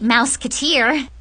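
"mouseketeer" said with MOUSE as the first syllable; mispronounced musketeer. Acted. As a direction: say "mouseketeer", starting like the word mouse. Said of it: "it's musketeer".

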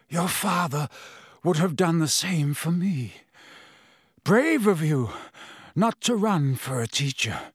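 a lightly voiced wasted prisoner, mocking; gaunt Sirius Black taunting. A narrator's reading.

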